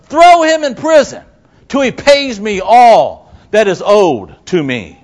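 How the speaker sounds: high, loud angry outburst; mad. Acted. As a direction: refuse angrily, slowing into the last words. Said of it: "gets mad and says".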